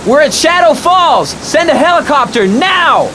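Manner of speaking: frantic shout into a radio. Acted. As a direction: yell into the radio that it's too late. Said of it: "shouted Ethan".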